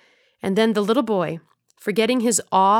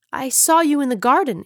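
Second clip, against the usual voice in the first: put-on high eager boy; 5 semitones higher, 3 dB louder than usual. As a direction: answer eagerly, higher.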